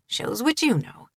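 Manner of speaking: light, smiling tease. Acted. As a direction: let a grin come through. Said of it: "a smile in his voice".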